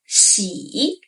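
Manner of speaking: 喜 dipping low then rising; third tone xi. Shown as a demonstration. Teacher demonstrating 喜, dipping tone. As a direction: dip then lift on 喜. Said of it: "deep rise tone".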